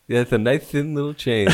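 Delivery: lightly lisped impression; a hint of a lisp on the sibilants; Mike Tyson. Co-host echoes the chain remark, light lisping impression. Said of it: "Mike Tyson".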